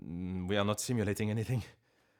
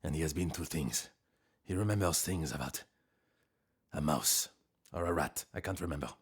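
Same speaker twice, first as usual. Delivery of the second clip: chef impression; 5 semitones lower than usual. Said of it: "but he talks like this".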